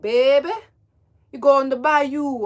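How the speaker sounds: a weak attempt at a Louisiana accent; hammed-up Louisiana accent, badly done. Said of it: "that was not a good Louisiana accent".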